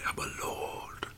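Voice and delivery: muffled behind a hand; hand over mouth. Pretend. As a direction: talk through a covering hand. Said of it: "Take your hand away from your mouth".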